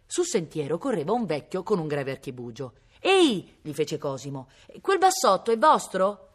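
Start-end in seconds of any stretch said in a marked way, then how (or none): 3.0-3.6 high, loud hail; sharp call from a distance. A narrator's reading. Boy hails old man on path. 4.8-6.3 slow, raised question; loud, higher, drawn-out hail; calling out. A narrator's reading. Boy calls question to old man.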